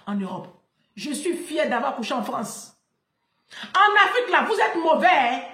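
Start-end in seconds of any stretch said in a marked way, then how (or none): 3.7-5.4 shout. Real, not acted.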